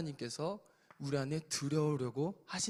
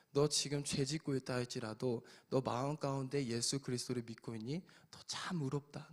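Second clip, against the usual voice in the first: softer, lower, loving words; a hint of a tender loving father; tender God voice; 3 semitones lower, 3 dB quieter than usual. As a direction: speak as God comforting a child. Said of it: "하나님께서는 그렇게 얘기하지 않으신다는 거예요".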